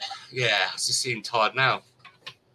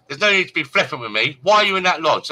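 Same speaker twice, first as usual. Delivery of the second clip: stern telling off; 3 semitones higher, 5 dB louder than usual. Retold or imitated. Campsite woman scolding on phone.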